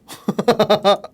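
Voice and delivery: real giggle after venting; amused laugh. Real, not acted. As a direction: burst out laughing at your own anger. Laughs at own anger. (분노 끝에 터진 웃음)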